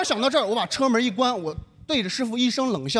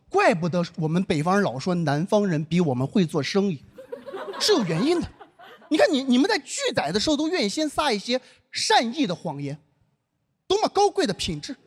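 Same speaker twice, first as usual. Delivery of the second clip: ironic praise; 3 semitones lower than usual. Retold or imitated. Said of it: "不是讽刺大家".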